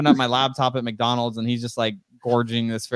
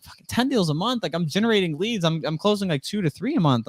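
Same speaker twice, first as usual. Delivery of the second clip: retold disbelief, at first indignant; incredulous outburst; 7 semitones higher than usual. Retelling to the host how he reacted in shock to a rival's sales numbers, incredulous and high. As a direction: pitch jumps higher on the first line, then settles.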